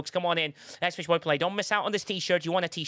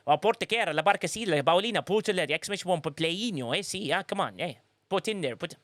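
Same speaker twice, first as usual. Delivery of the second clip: mock Spanish scolding. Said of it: "Don't make me swear in Spanish".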